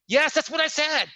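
high-pitched retold protest; mock indignant, pitched well up; exasperated insistence. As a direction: insist you said exactly that.

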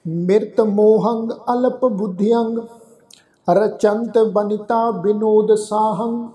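measured, slow chant of the verse; slow recitation. Shown as a demonstration. Teacher leading the congregation through the verse, slow and measured. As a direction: recite it slowly, word by word. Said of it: "ਆਓ ਰਲ ਮਿਲ ਕੇ ਉਚਾਰਨ ਕਰਦੇ ਹਾਂ".

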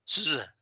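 Z sonora que vibra un poquito; Z vibrante. Shown as a demonstration. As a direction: haz zumbar la Z. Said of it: "que vibre un poquito". (sonido de Z con vibración)

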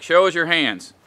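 a firm cop order, lightly voiced; imitating cop command. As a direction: bark it once, just a light cop command. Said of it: "where cops are like".

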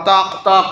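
two quick knocks like stones; stone click imitation. Shown as a demonstration. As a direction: knock out taak taak. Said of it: "মনে করো আমি উচ্চারণ করতেছি". (পাথর ঠোকার আওয়াজের নকল)

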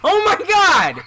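furious yelling at the game; raging shout. Real, not acted. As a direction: scream it out in rage. Raging at a hard level.

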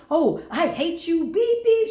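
squeaky mock hater voice. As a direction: mimic an angry caller with a silly high voice. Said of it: "I got one person that comes all the time".

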